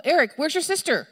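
acting a parent increasingly alarmed; worried parent calling. Mother questions Eric about his missing sister, worried calling. Acting out search for lost child.

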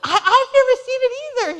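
fast, high and loud, laughing through it; a flustered, giggling excuse; laughing defensive. Retold or imitated. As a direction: she tells her husband she's never seen the show, laughing. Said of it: "I said".

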